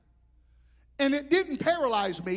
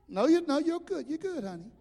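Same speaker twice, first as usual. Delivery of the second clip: softer, gentle calming; reassuring; 4 dB quieter than usual. Retold or imitated. Pastor calming a panicked woman, soft and reassuring. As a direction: soothe her down quietly.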